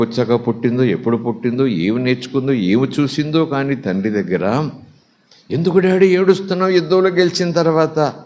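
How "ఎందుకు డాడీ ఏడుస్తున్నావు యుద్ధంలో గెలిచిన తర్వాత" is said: lightly acted daughter, pitched higher; puzzled daughter pressing her father, raised pitch; mild acted bewilderment in a higher voice; daughter's questioning.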